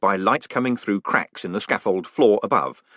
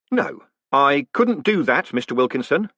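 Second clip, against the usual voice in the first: said loudly; 5 semitones higher than usual. Acted. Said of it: "said Moist loudly".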